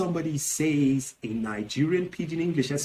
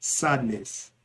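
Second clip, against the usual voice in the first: usual speaking voice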